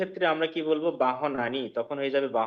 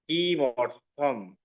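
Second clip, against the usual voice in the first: slow drawn-out word; much slower than usual. Shown as a demonstration.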